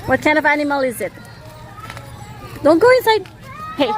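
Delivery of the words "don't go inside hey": calling out. Real, not acted. Parent warning child at zoo.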